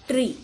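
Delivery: ट्री with a long "ee". Shown as a demonstration. Teacher showing the double E sound, ट्री with long "ee". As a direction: model ट्री clearly, ending on the long "ee" vowel. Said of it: "दीर्घ ई असा उच्चार होतो".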